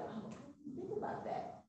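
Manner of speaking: hushed high "oh" building to an eager exclamation; sudden realization. Acted. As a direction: play a customer suddenly realizing a need. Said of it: "You hear something like".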